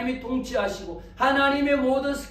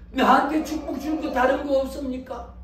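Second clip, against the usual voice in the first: higher-pitched acted begging; a touch of lament in a raised voice; wailing plea; 4 semitones higher than usual. Brother asking for another blessing, pleading lament. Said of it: "그 형이 통곡하며".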